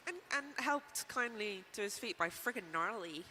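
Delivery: put-on lightly done American teen voice; American teenager accent. Shown as a demonstration. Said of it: "I will only say like that".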